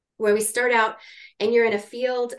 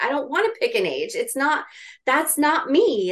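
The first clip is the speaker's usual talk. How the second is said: mildly exasperated retold protest, pitch climbing; frustrated; 4 semitones higher, 3 dB louder than usual. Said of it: "I get frustrated".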